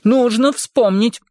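slow, high theatrical exclamation; hammy stage actor. Acted. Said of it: "театрально воскликнул он". (театрально, как актёр на сцене)

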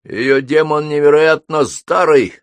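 high, slow fire-demon voice; weakly crackling demon. A narrator's reading. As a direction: crackle it out slowly, high and loud. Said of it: "слабо потрещал Кольцефер". (слегка трескучий голос демона)

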